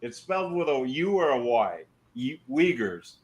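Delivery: chewing gum while talking; words around a wad of gum; mouth full. Real, not acted. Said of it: "I got gum in my mouth".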